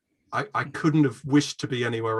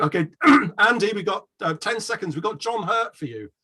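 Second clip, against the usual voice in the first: stage producer; 7 semitones higher than usual. Retold or imitated. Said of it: "they were saying".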